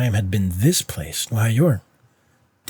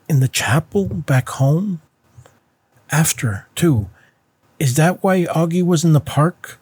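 high, loud pressing questions; urgent child; 8 semitones higher, 6 dB louder than usual. Acted. Boy pressing his mother about the park, high and urgent. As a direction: press her, voice climbing.

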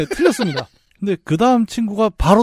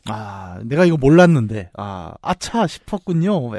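hammy fake regret; 5 semitones lower, slower than usual. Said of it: "약간 이런 거".

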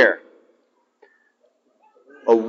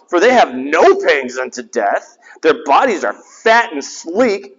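resentful attitude. Shown as a demonstration. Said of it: "I want you to just hear the attitude".

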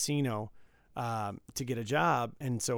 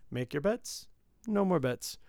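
casino croupier; 4 semitones higher than usual. Retold or imitated. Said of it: "he just deals out the hand".

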